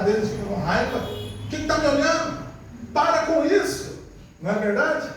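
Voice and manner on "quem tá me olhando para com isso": put-on annoyed kid. Preacher voicing an irritated child: mock annoyed. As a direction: play the teen annoyed at being stared at.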